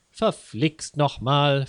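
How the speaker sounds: slow, mock-angry curse; hammed-up annoyed oath; cursing loudly. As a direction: spit out a mild curse, slowly. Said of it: "fluchte Herr Huber laut".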